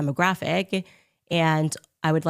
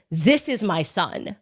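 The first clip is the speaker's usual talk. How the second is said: slow, lightly hushed mystery voice; mock mysterious; slower than usual. Ex-boyfriend introduces his son, mock mysterious. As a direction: play it slow and secretive. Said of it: "really mysteriously".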